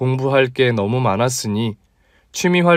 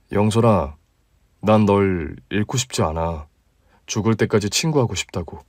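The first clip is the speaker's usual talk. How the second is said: a touch lower, relaxed guy talking to a friend; easygoing male colleague, slightly deeper; 4 semitones lower than usual. Acted. Male lead replying. (조금 낮고 편안한 남자 목소리)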